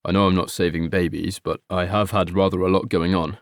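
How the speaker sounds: a son trying to defend himself gently; meek defensive son. Acted. Son answering his mother, low and defensive.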